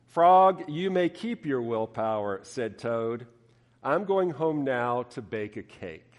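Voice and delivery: lively storybook reading; story narration. A narrator's reading. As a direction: read it like to children. Preacher reads Frog and Toad story.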